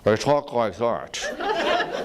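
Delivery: slow, clipped-in Episcopalian anger, laughing; tight-lipped anger. Shown as a demonstration. Teacher mocking an angry Episcopalian, slow and restrained. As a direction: bottle up the anger, speak slowly. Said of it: "when an Episcopalian is angry".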